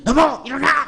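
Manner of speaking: 높은 소리로 다그치는 배우자; 배우자를 높게 다그쳐 깨우듯; 잔소리하듯 깨우기. Shown as a demonstration. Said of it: "이런 소리는 매일 듣지만". (높게 다그치며 깨우는 소리)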